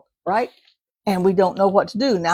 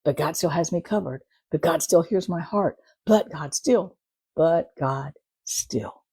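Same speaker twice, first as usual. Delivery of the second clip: soft reassurance; 3 semitones lower, 4 dB quieter than usual. Retold or imitated. Calming declaration of trust.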